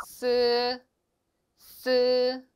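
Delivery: 스 with a long hissing s; Chinese s sound. Shown as a demonstration. Teacher models the Chinese s for students. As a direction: hiss out 스. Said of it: "된 소리가 역시 나고요".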